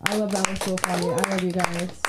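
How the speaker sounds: affection in an everyday, unemphatic tone; unconvincing affection. Real, not acted. Host praising Lenny to the crowd, unconvincing affection. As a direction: praise them without sounding like it. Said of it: "my tone doesn't sound like it".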